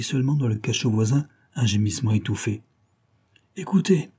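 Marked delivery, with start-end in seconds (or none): 3.6-4.1 mocking. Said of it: "exclama Joe, railleur".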